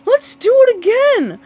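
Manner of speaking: very high, loud excited shout; eager cry. Acted. Patrick shouting to the team, eager and loud. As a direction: beg to go again. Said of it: "cried Patrick".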